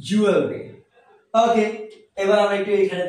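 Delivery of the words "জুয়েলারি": "জুয়েলারি" said as "JU-el-ri", no "la"; correct pronunciation. Shown as a demonstration. Teacher giving learners the proper form, "জুয়েলারি" as JU-el-ri. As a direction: say "জুয়েলারি" running l straight into "ri". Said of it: "কি হবে?".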